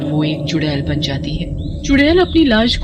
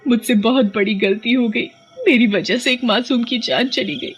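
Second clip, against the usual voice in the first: desperate prayer; 4 semitones higher than usual. Acted. Mother prays and begs for daughter.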